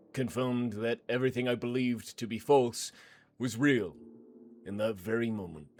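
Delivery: a lightly voiced hard man, cool and matter-of-fact; confessing hooligan. To the priest, a lightly voiced hard man confessing coolly. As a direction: confess a killing without remorse.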